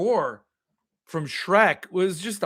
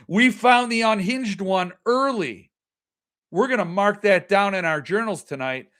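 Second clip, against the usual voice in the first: wary classmates; 5 semitones higher, 3 dB louder than usual. Retold or imitated. Voicing wary classmates reacting.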